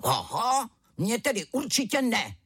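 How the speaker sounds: high-pitched little tiger outburst; tiger cub roar. A narrator's reading. Little tiger answering mother, high roared refusal. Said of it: "zařval malý tygr".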